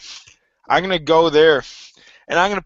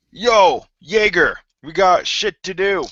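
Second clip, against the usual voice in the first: higher-pitched call to rouse someone; mild acted yell; 3 semitones higher, slower than usual. Dwarf rousing a sleeping guard, mild yell. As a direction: call out, only half yelling. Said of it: "I'm gonna yell at him".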